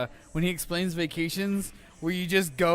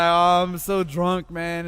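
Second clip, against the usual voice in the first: put-on slow, louder drunken drawl; 6 dB louder, much slower than usual. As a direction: slur it slowly like a drunk roommate. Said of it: "he's like".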